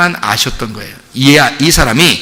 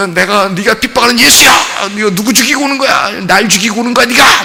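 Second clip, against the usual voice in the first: raised, accusing voice of Jesus; Jesus confronting Paul; 4 semitones higher than usual. Retold or imitated. Jesus confronts Paul on the road, raised and accusing. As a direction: demand the answer, pressing him hard. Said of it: "막 이러면서".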